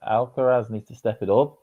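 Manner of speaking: lightly attempted Scouse; Liverpool accent. Shown as a demonstration. Co-host performing on request, tentative Liverpool accent. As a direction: give the line a tentative Scouse lilt. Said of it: "with the Liverpool accent".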